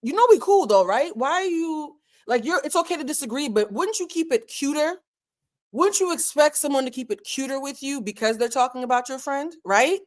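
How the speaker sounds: gently calling out a messy friend; mock friendly confrontation. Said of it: "You'd be like".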